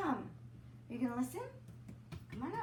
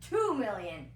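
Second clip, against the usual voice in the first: louder firm bid; archduke raising bid; 9 dB louder than usual. A narrator's reading. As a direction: push the offer harder. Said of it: "he said".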